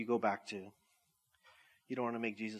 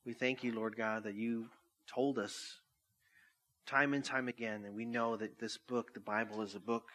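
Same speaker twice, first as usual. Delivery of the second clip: prayer. Acted. Pastor closes the sermon praying over music, earnest. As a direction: pray it with humble sincerity.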